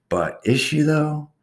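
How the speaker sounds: ordinary talk, nothing marked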